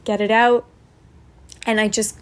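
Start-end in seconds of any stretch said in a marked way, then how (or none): 0.0-0.6 gently lifted coaching voice; encouraging. Retold or imitated. Breathwork guide coaching an emotional release, mildly encouraging. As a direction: urge them on through the release. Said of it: "she was very encouraging throughout".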